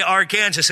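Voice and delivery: Arkansas said as "ar-KAN-zus"; forbidden pronunciation. Shown as a demonstration. Preacher joking about breaking state law, Arkansas mispronounced "ar-KAN-zus". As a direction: say Arkansas like Kansas with "are" in front. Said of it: "it's a violation of state law to say".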